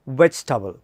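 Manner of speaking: vegetable said as veg-tabl, three syllables; careful vegetable. Shown as a demonstration. Teacher models vegetable for students. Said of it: "so the first word is".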